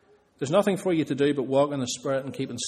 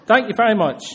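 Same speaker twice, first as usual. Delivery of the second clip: said through laughter, louder; laughing; 5 semitones higher, 6 dB louder than usual. Retold or imitated. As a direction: let the laugh spill into the words. Mother's joke, laughter.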